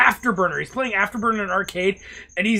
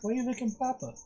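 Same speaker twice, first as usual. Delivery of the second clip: tender pet talk; 3 semitones lower, 10 dB quieter than usual. Real, not acted. Owner soothing the dog during a game, tender and hushed. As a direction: murmur fondly to a pet.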